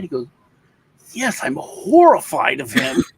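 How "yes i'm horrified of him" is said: slow, high and loud through a laugh; laughing while quoting. Retold or imitated. Father laughing as he quotes his son's fear of him.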